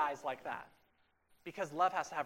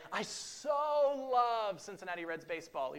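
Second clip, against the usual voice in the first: mock fan gush; 4 semitones higher than usual. Joking fan enthusiasm.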